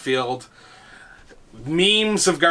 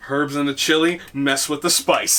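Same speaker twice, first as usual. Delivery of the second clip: quoting a character line. Retold or imitated. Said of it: "That's it".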